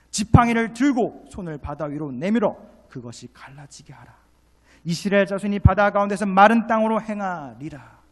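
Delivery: loud, high declamation of God's command; forceful scripture proclamation. Real, not acted. Preacher declaiming God's command to Moses, forceful. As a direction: proclaim the verse at full force.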